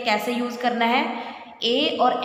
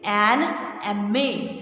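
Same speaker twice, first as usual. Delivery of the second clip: slow demo; 2 semitones lower, much slower than usual. Shown as a demonstration. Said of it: "एम में ये ए की sound आई".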